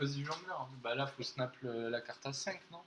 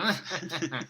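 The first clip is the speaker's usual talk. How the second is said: evil dwarf laugh; 4 semitones higher than usual. Pretend. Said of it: "Tu pourrais nous faire un rire machiavélique".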